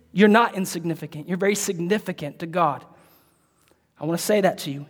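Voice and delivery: low, soft, earnest comfort; tender reassurance. Real, not acted. Preacher comforting listeners who feel insignificant, tender reassurance.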